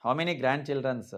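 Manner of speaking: slow wrong example. Shown as a demonstration. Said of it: "తప్పు".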